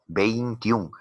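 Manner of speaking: "veintiún" in two beats, vein-tiún; syllable demonstration. Shown as a demonstration. Teacher showing that "veintiún" has two syllables, syllable by syllable. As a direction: keep each diphthong whole in "veintiún". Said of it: "Tiene dos sílabas".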